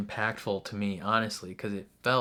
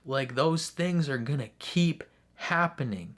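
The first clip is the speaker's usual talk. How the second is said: impassioned; 4 semitones higher, 3 dB louder than usual. Real, not acted. Vlogger urging viewers to fight back, impassioned and heated. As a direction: hammer it home, outraged.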